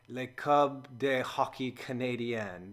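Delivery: slow, amateur attempt at a French accent. Shown as a demonstration. Sports fan attempting the team's French name, French accent. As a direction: say it in your best makeshift French accent. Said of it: "my best French accent".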